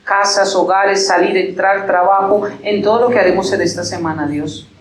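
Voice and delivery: earnest pastoral prayer to God; closing prayer. Acted. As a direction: pray over the congregation, slowing at the amen. (oración pastoral ferviente y pausada)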